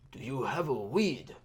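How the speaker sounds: a light put-on East Asian accent on the question; slightly mocking East Asian accent, asked flatly; imitating the tall guy's East Asian accent; imitated Asian accent. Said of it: "you know, that accent".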